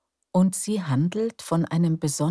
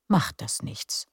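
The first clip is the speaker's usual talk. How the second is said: whispered. Real, not acted. Reassuring aside in intro.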